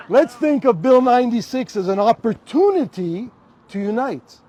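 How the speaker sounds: speaking through a real laugh. Real, not acted. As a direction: let the laugh spill into the words. Joking about ending speech.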